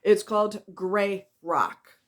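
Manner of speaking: gray rock said slowly, word by word; emphatic slow gray rock; slow repeat. Shown as a demonstration. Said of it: "Let me repeat that".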